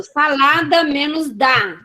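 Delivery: slow SALADA menos DA; stretched, unhurried dictation; syllable demonstration. Shown as a demonstration. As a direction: set out the pieces for learners. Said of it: "manipulação silábica".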